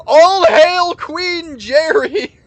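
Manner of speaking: slow booming cheer; triumphant shout. Real, not acted. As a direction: proclaim it like a royal herald. Cheering the winning Pokemon.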